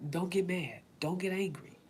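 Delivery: soft words to herself, calming down; hushed self-calming; quiet self-talk. Retold or imitated. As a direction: talk yourself out of anger, quietly. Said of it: "talk to myself and literally say".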